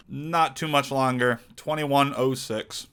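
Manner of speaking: talking while munching pretzels; words round a mouthful of pretzels; crunching chips. Real, not acted. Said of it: "Sorry, I'm eating pretzels".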